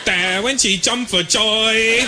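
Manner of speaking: hammed-up Chinese-accented stand-up act; Chinese comedian. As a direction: do a caricature Chinese accent, slowly landing the joke. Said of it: "Little Chinese brother running out".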